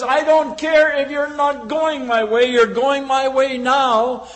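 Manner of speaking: a Roman soldier barking his order; bossy soldier. Acted. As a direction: override the protest loudly. Soldier brushes off your protest.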